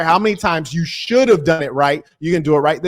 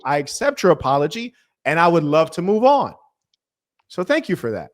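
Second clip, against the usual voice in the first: solemn gracious speech. Acted. Formal mock-gracious acceptance speech.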